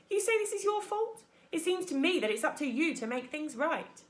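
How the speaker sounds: put-on a touch of a suspicious old goose. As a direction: scold like a wary old bird. Goose scolding.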